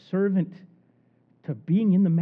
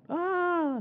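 mock scream; 11 semitones higher, 6 dB quieter than usual. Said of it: "She yells out".

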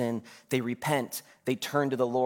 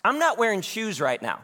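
put-on high, louder little-kid voice; Judah; 7 semitones higher, 3 dB louder than usual. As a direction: pipe up like a kindergartner confessing to mom. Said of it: "Judah all of a sudden goes".

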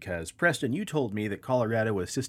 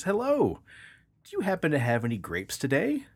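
much higher polite duck; 7 semitones higher than usual. Acted. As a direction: sweetly ask once more. Joke, duck third visit.

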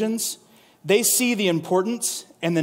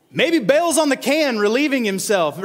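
mocking trash talk; 5 semitones higher than usual. Elijah jeering at the prophets of Baal, mocking. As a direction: rub it in with a grin. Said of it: "He even goes as far as to say".

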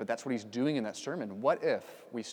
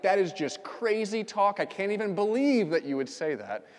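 strongest no; 6 semitones higher, 5 dB louder than usual. Retold or imitated. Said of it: "the strongest no that you could".

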